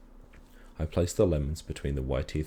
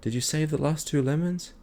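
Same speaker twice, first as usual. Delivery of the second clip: high, loud desperate question; shouting; 12 semitones higher, 5 dB louder than usual. A narrator's reading. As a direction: shout it at dad, frantic. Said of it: "I shouted".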